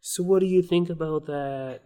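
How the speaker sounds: put-on Boston accent pulled further back in the throat. Host retries his Boston accent after the guest's tip. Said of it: "like a back of the throat".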